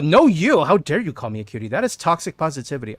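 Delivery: playful indignation with a loud opening; hammed-up protest, easing off as it goes; joking mock outrage. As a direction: pretend to be offended by a compliment. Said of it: "I'm joking".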